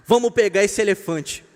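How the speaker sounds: loud, hammed-up call to arms; rally the comrades like a union leader, loudly; ant leader's rallying call. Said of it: "o líder disse".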